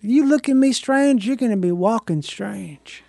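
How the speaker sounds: slow cowboy threat; Old West cowboy. Acted. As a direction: drawl it like a movie gunslinger. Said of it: "The Old West".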